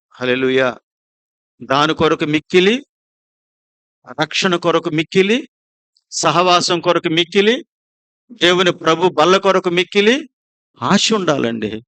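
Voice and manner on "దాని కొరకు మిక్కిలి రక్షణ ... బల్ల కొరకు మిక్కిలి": each మిక్కిలి lifted and stretched on a rise; building preacher refrain. Acted. Preacher to congregation, మిక్కిలి stretched on a rising tune. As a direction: lean on every మిక్కిలి, climbing.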